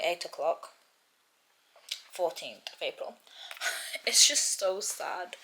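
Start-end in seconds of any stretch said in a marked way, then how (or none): 4.1-5.4 hushed, slow whisper. Real, not acted. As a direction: breathe it out, moved by the book. Reading emotional book, whispering.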